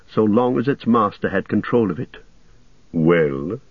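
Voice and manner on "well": low, gently questioning; gentle question. A narrator's reading. Enchanting voice answers those below, gentle low question. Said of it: "it said now with gentle question".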